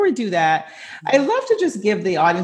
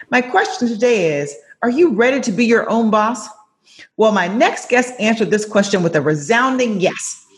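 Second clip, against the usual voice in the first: podcast host intro; 2 semitones higher than usual. Acted. Host welcoming listeners before the guest joins, upbeat announcer read. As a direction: read the opening like a polished announcer.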